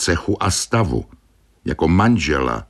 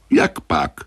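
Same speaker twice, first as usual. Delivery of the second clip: mildly raised voice, falling at the end; a restrained exclamation; exclaimed fairly loudly. A narrator's reading. Baldini challenges the apprentice, mildly loud. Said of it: "Zvolal Baldini dosti hlasitě".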